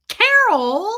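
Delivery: loud, high CAROL; imitated blaming yell. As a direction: holler at your wife accusingly. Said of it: "like it was her fault".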